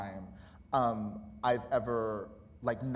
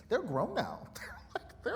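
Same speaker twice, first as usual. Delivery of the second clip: normal talking voice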